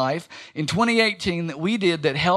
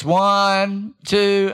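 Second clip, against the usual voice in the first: imitating a child; 5 dB louder than usual. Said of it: "Lillian counts like this".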